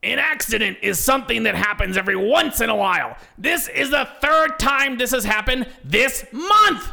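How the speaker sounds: very high, furious, angry exclaiming. Reading a story, voicing the manager scolding an employee: angry exclaiming. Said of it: "exclaims Debbie in anger".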